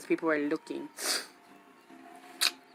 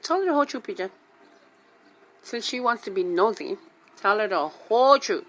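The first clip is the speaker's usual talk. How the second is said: higher, raised order to tell the truth; sharp order; 3 semitones higher, 4 dB louder than usual. Retold or imitated. Mom orders son to tell nosy lady, raised and sharp. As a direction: push him to confess.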